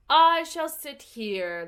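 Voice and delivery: lightly voiced stubborn footman. A narrator's reading. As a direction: plant yourself and refuse to budge. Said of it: "the footman remarked".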